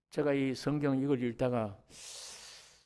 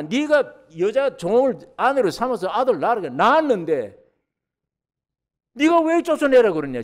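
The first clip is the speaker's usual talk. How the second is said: loud, high, exasperated rebuke; angry scolding; 8 semitones higher, 9 dB louder than usual. Acted. Abraham loudly scolding Sarah over casting out Hagar's son. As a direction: tear into her for sending the boy away.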